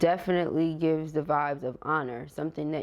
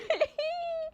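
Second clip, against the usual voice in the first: squeaky high laugh; high-pitched giggle. Real, not acted. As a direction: let out a high little giggle. Laughs while searching for word.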